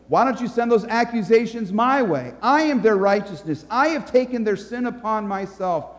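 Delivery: firm defender, pitch lifted; a hint of a bold advocate; Jesus answering the accuser. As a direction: step in and take the blame, emphatically. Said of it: "So Jesus says to your accuser".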